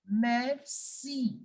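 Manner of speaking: "Merci" ending in a long ee; two spaced syllables in "Merci", mair-see; French thank you. Shown as a demonstration. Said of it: "How do you say thank you".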